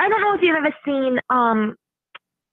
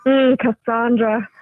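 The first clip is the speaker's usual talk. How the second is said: mock sultry name-call; slower than usual. Mimics the creepy saying of her name.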